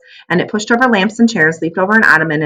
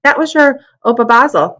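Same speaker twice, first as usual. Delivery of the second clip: wistful; 7 semitones higher, 4 dB louder than usual. Acted. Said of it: "Missus Grimm said wistfully".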